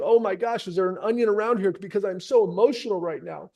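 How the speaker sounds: mock tearful client. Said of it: "They're gonna be saying".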